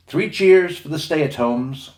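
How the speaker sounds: rally the crew to cheer, slowly; calling out cheers. A narrator's reading. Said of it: "called Captain John".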